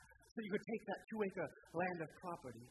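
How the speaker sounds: put-on sing-song southern accent selling wealth. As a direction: ham up a southern prosperity preacher. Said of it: "I'm gonna try to use my southern accent".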